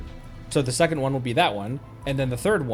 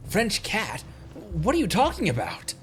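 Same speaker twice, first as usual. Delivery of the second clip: lightly acted puzzled reply, pitched up; mock confusion; 6 semitones higher than usual. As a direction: play a baffled companion, slightly hammed-up. Acts out a confused companion's reply.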